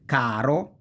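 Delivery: caro with the weight on ca; stress on second-to-last. Shown as a demonstration. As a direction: lean on the first syllable: CA-ro. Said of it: "falls on the second to last syllable".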